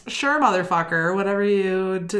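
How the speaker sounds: lightly voiced tough guy; a hint of a gangster sneer; mobster voice. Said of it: "Why do I sound like I'm a mobster now?".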